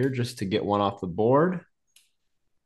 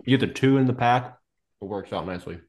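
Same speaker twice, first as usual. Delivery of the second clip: talking with a mouthful of Twix; words round a bite of chocolate; chewing while talking. Real, not acted. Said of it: "sorry, I'm chewing on camera".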